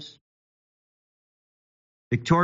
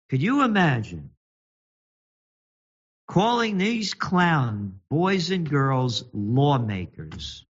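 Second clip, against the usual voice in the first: slow sneer; slower than usual. Real, not acted.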